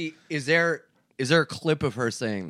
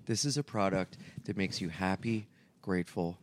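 hushed, dreamy commercial read; soft ad read voice; 3 semitones lower, 7 dB quieter than usual. Retold or imitated. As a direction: sell it softly like a heartfelt ad. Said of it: "they would be like".

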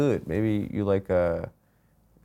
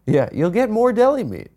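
high, louder cheering-up; upbeat encouragement; 11 semitones higher, 5 dB louder than usual. Real, not acted. Cheering up a glum friend, high and upbeat. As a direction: pitch it way up to cheer him on.

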